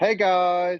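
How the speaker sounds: teasing, high, loud show-host voice. Greeting the others while mocking how the host opens the show: imitating Jennifer's show opening. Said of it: "That was going back to making fun of Jennifer".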